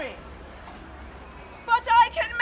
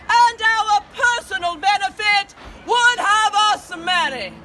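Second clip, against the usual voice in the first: warm regal boom. Acted. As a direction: proclaim it to the crowd like a queen. Queen addresses her subjects.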